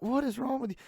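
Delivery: very high, loud incredulous squeal; hammed-up disbelief, pitch shooting up; mock appalled. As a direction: reenact being grossed out at dad. Acting out own appalled reply.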